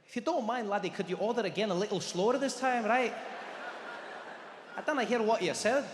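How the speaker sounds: mild Scottish lilt; a gentle laddie brogue; Scottish accent. Retold or imitated. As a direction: waiter asks for the order again, in a Scottish accent. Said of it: "Scottish Indian man".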